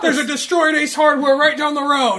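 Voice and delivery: high, loud plea breaking into laughter; laughing mock plea. Co-host adds to the mock begging, high and laughing. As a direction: sell the joke while cracking up. Joining the comic bit.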